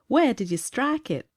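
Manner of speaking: slow, high, exaggerated American accent; put-on American accent. A narrator's reading. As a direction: drawl it in your best American accent. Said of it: "in his best American accent".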